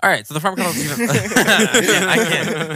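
breaking into laughter mid-sentence; can't stop laughing while talking. Real, not acted. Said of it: "Not if you're gonna laugh".

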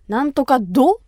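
Kumamoto-ben with a firm ど; strong Kumamoto dialect. Shown as a demonstration. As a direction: demonstrate the strong Kumamoto ど ending. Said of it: "ちょっとね、強いのよ".

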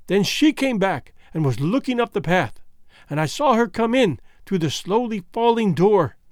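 put-on faint, fading voice of a wounded girl; dying young woman. Foulata telling Bhagwan how Gagool stabbed her, weakly. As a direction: speak as if life is slipping away.

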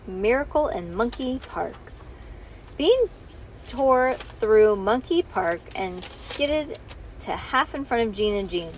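ordinary delivery

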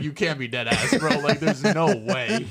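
laughing through the words; can't hold back the laugh; laughing disbelief. Retold or imitated. Telling hosts his reaction, laughing.

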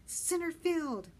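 high, drawn-out loud call; loud, slow prompt; shouting. A narrator's reading. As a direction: shout it slowly across the water. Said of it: "Benny shouted".

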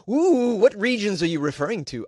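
ordinary delivery

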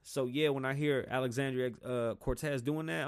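ordinary talk

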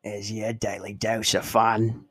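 slow mock action-hero quote; drawn-out tough-guy catchphrase, hammed up lightly; eighties badass one-liner. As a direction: deliver a slow, cheesy action tagline. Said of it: "type badass quote at the end".

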